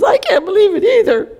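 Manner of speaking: high-pitched copycat schoolgirl; mock-indignant girl. Other girl echoes the teacher, mock indignation. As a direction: chime in with put-on disbelief.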